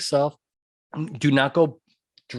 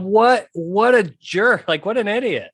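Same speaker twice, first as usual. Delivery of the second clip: higher, louder jeering scorn; mocking scorn; 5 semitones higher, 4 dB louder than usual. Twitter users roasting the coach, in loud scornful jeering. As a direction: jeer at him like the online crowd. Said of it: "Twitter just roasted this dude".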